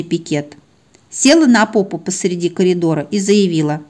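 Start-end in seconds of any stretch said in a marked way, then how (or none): none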